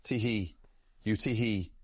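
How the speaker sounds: lightly voiced chef, tee hee between words. Streamer answers a chat request in light chef voice. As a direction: keep a tee hee going. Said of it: "please add tee hee at the start of every sentence".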